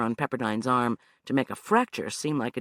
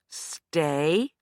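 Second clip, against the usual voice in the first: order; 3 semitones higher than usual. Acted. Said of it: "Anna ordered".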